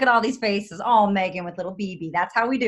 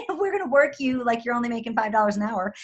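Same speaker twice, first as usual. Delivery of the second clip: mock boss voice; 13 semitones higher than usual. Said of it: "It's like".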